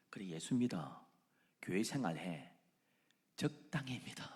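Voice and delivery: soft, sly tempting whisper; Satan's whisper. Acted. Satan whispering to believers, sly whisper. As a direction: lure them in with a whisper. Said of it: "사탄이 우리에게 속삭입니다".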